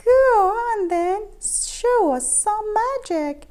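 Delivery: loud, high jeering; chortling taunt. A narrator's reading. Cats daring Keith to show magic, loud jeering. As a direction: dare him, loudly. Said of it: "they chortled".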